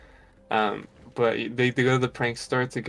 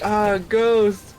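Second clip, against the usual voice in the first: higher, louder mock panic scream; mock scared yell; 9 semitones higher, 5 dB louder than usual. Retelling the guy fleeing a ghost, mock scared shout. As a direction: yelp in fake terror. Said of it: "He's like".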